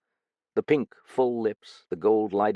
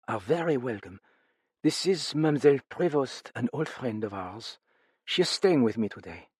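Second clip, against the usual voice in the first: a lightly voiced tired hostess, a touch higher; weary older woman; 4 semitones higher than usual. A narrator's reading. Lightly voiced widow greeting her visitors. Madame Duchesne speaks.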